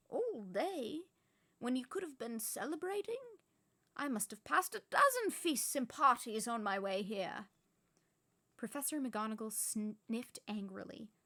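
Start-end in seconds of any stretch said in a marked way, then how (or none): 0.1-7.5 higher, louder indignant voice; indignant witch. Acted. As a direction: scold him like an offended teacher. McGonagall complains.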